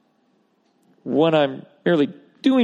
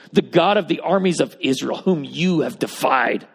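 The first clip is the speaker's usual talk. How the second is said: emphatic declaration. Acted. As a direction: declare it with firm trust. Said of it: "It's an emphatic declaration of trust".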